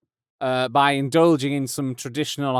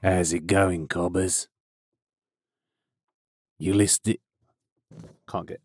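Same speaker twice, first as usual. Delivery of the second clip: lightly put-on Australian greeting, lower; a hint of Australian twang on "cobbers"; mock Australian; 6 semitones lower, 3 dB quieter than usual. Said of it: "it's an Australian name".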